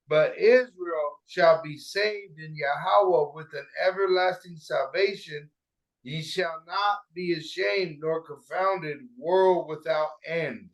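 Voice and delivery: slow, measured scripture recitation; scripture reading. Acted. Reading Isaiah aloud to the group, slow scripture reading. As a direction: read it out slowly, weighing each phrase.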